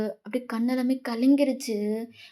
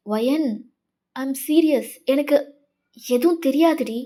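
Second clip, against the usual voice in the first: louder, urgent self-defence; emphatic denial; 2 semitones higher, 5 dB louder than usual. Acted. Senior swearing to Wayan she knew nothing, emphatically earnest. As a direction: insist firmly that you are innocent. Senior denies knowing about the secret.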